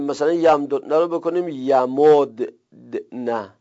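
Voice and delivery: slow demo of یمددن with the first دال made silent; pronunciation demo. Shown as a demonstration. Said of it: "دال اول رو ساکن کنیم". (تلفظ آهسته یمددن با دال اول ساکن)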